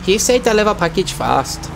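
hammed-up Chinese-style accent in broken English; mock broken-English accent. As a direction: play a delivery driver with a crude Chinese accent. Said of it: "the worst and most offensive accent".

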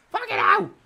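high startled yelp of shock; shocked outburst. Real, not acted. Startled by the game, a high shocked outburst. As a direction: caught off guard, blurting out loud. Sudden shock during play.

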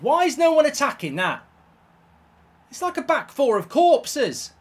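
high, loud angry rant at the defence; furious rant. Real, not acted. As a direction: rage at your useless defenders. Gamer furious at conceded goal.

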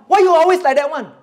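whiny complaint. Retold or imitated. Young people complaining to God.

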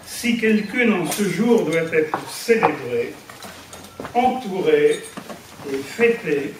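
measured verse, a pause after each line; poem recitation. Acted. Speaker reads her verse to the gathered friends, poem recitation. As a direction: recite homemade rhymes, line by line.

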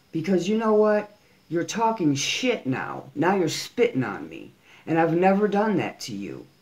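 confronting Frank Nitti in a rising, furious tone; heated callout. Real, not acted. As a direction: tell him off to his face, fed up. Public callout to an enemy.

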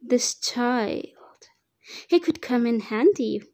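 whispered with a falling end; whispered menace about the child; sinister whisper. Acted. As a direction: hush it like a dark secret. Villain eyes the child.

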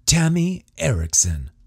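high, proud announcement; declaring. A narrator's reading. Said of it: "Chad declared".

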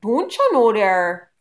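loud, drawn-out cartoon mother impression; Bobby's mom. Vlogger recalling a childhood cartoon, imitating the mother's accent. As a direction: belt it out slowly in an exaggerated accent. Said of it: "His mom".

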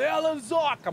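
high sneering villain quote; mock the sinister greeting; evil voice. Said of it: "Mó voz maldosa".

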